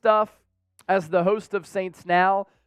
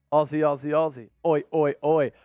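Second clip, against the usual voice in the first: put-on Australian accent; 4 semitones lower than usual. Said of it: "I'm saying that in the Australian voice".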